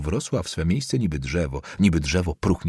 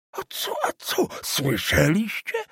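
much higher, breathless crow of triumph; old councillor crowing to the family, much higher; mock-triumphant old man's cry; 12 semitones higher than usual. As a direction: crow to the room, slow on the last word. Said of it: "krzyknął Somonowicz".

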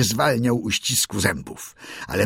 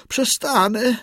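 high, eager bird call; slower than usual. A narrator's reading. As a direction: call out in submission. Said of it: "zawołał Darci".

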